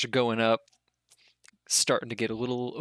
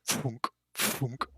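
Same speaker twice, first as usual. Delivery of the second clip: airy mouthed thump of a catapult; hollow whooshing thunk sound effect; imitated trebuchet launch; 4 dB quieter than usual. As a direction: mimic rocks being launched, one by one.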